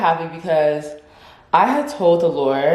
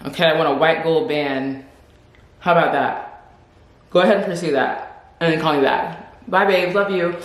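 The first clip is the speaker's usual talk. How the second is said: breezy demanding. Pretend. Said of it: "I would just be annoying".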